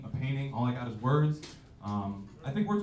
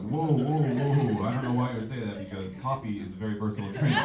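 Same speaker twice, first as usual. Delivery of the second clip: mock startled protest; 3 dB louder than usual. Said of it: "I'm like".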